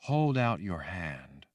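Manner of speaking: slow, soothing and gentle. Acted. Woman coaxing the girl by the fire, slow and soothing. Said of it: "in that soothing voice she had".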